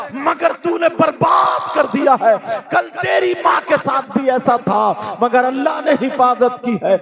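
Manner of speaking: mother denouncing her son, furious. Acted. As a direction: rebuke the son without mercy. Preacher voices furious mother.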